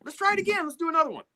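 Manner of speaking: high, noncommittal stalling voice; evasive hedging. Retold or imitated. Engineer dodging the guitarist's question, high evasive hedging.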